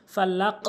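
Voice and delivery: ফালাক with the q echoing upward to o; upward qalqala. Shown as a demonstration. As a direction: bounce the end of ফালাক up, rounded. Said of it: "উপরের দিকে কিন্তু sound হচ্ছে".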